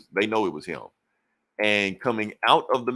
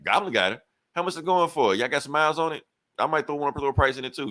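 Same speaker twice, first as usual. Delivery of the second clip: higher eager buyer voice; curious and keen, pitched up; 6 semitones higher, faster than usual. Retold or imitated.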